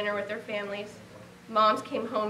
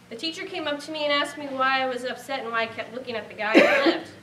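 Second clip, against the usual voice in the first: laughing through the words, louder at the end; 4 semitones higher, 7 dB louder than usual. Real, not acted. Mother retelling her son's story, laughing. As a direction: break into a laugh as the story lands.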